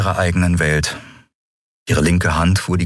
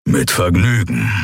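rough creature's growl. A narrator's reading. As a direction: growl it with relish. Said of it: "knurrte Keru".

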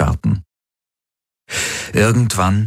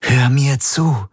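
urgent plea; 7 semitones higher, slower than usual. A narrator's reading. Kirai pleads with Galen.

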